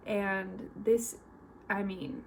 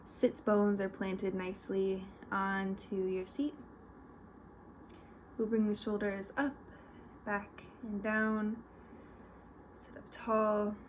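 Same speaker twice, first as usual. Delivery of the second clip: guided meditation; 5 dB quieter than usual. Real, not acted. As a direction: lead them gently, with long pauses between instructions.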